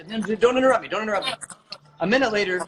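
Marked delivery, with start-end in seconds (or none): 0.1-1.3 mildly exasperated mock protest; lightly annoyed, pushing the interruption away; retold annoyed refusal. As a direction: act out being interrupted and irritated.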